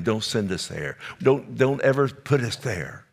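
a lightly voiced plea rising in pitch; demons begging. Preacher voicing the demons begging Jesus, rising plea. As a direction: plead like the demons fearing the pit. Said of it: "They begged him".

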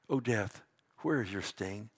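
low, soft reading of the challenge; solemn taunt. Acted. Preacher reads Paul's words to death, low and solemn. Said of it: "Do you know that Paul is mocking death".

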